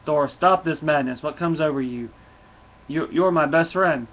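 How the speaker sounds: loud mock yell from a wounded dragon; hammed-up dragon hollering at his friend; retold dragon pleading with Thor, mock loud. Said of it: "The dragon starts yelling".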